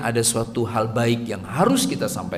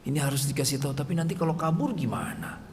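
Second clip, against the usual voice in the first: worried parent. Retold or imitated. Parent voicing worries about child.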